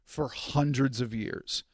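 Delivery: lightly imitating an Indian British accent. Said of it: "That was like an Indian British accent".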